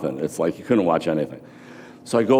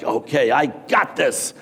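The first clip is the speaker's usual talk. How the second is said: put-on cocky young graduate; 5 semitones higher, slower than usual. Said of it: "I was one of those kids like".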